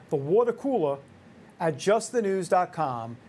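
light New York accent. Shown as a demonstration. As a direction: say it like a New Yorker. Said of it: "I'll do it in a New York accent".

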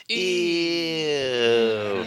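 put-on high, squeamish kid's "ew"; kids going ew. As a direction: pull a face like a grossed-out child. Kids' grossed-out reaction to love.

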